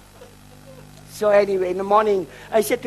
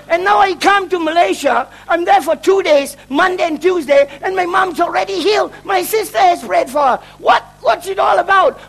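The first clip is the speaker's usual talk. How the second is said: raised, indignant complaint; retold anger; 4 semitones higher, 4 dB louder than usual. Complaining that mum was already healed, retold exasperated anger. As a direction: pile up the grievances in exasperation. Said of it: "I get really angry".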